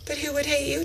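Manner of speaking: mock-innocent, barely voiced question; hushed disbelief. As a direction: ask it in a small, astonished voice. Imagined people doubting she has haters.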